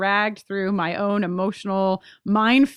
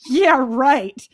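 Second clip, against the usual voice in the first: a sarcastic "yeah, right" thrown out louder; mock sarcastic; 4 semitones higher, 7 dB louder than usual. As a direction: toss it off like a mocking listener. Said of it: "very sarcastically laughing at us".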